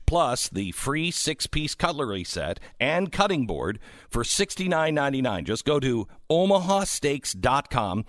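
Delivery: upbeat sales pitch read; infomercial. Acted. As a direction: sell it like a radio ad. Live ad read for steaks.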